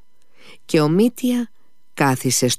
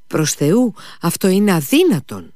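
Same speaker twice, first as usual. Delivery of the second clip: desperate protest; 9 semitones higher, 4 dB louder than usual. Acted. Mitia protests waiting until morning.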